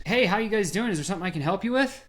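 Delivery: bright, high, quick mock salesman greeting; eager salesman. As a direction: play the over-eager store clerk rushing up. Salesman greeting customers in store.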